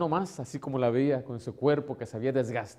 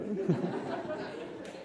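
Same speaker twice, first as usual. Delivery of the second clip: laugh; 6 semitones higher, 7 dB quieter than usual. Real, not acted. Risa tras la anécdota.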